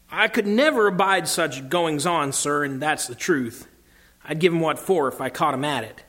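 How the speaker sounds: lightly voiced country cabbie; a hint of country working man, earnest; country-tinged cabbie. Cabbie assuring Aslan he'd be fair, light country voice. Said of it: "more like the country voice".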